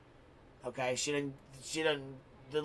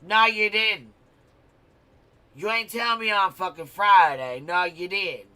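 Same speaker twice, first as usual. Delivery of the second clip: loud, higher insistent no you didn't; angry denial; 4 semitones higher, 8 dB louder than usual. Retold or imitated. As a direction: keep hammering the denial, raised and loud. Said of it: "I was like".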